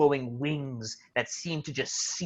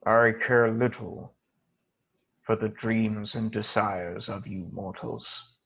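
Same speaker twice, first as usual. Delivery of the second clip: dark lord; 2 semitones lower than usual. Acted. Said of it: "this beast just regards you and goes".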